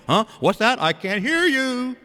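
high mock shout from a distance; calling back. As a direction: call back as if unable to hear, stretching the last words. Acting the deaf-eared hearer calling back.

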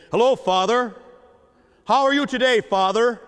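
hammed-up formal hello to a father; stiff formal greeting. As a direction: greet your dad as if he were a stranger. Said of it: "I would never pick up the phone when he was living and say".

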